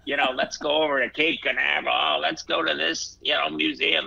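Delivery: lightly imitating his mom pushing him to go; mom urging. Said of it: "She goes".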